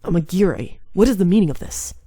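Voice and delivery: lightly voiced arrogant demon demanding answers; a hint of a haughty clan head; cold demon lord. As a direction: demand it with icy pride. Kazuma confronts Amagiri.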